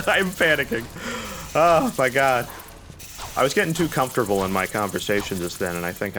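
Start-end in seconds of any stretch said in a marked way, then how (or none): 0.1-2.5 high, loud, laughing panic; real panic. Real, not acted. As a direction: blurt it out, pitched up and giggly.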